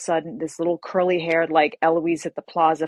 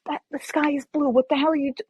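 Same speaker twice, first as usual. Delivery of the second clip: imitating friend; 9 semitones higher than usual. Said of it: "she'll be like".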